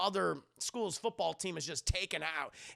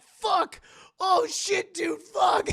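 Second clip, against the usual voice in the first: high, loud mock-panic shouting; panicked cursing; 12 semitones higher, 10 dB louder, much slower than usual. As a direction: swear in frantic dismay as it escapes. Group panics as she escapes.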